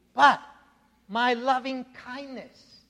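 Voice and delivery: "But" then a pause, "my loving kindness" drawn out slowly; stress on loving kindness. Shown as a demonstration. Preacher emphasizing the Hebrew word to the congregation, slow and stressed. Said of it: "that Hebrew word that I keep emphasizing".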